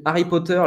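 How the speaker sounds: "Harry Potter" as "a-ri po-teur", French r; dropped H. Shown as a demonstration. Teacher showing how the H disappears, French pronunciation. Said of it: "le H, il disparaît".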